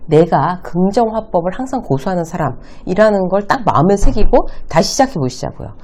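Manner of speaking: usual speaking voice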